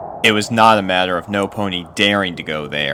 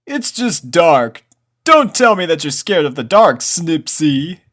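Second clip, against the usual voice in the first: teasing colt Snails; 10 semitones higher, 9 dB louder than usual. A narrator's reading. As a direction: needle a friend about being scared. Snails teases Snips.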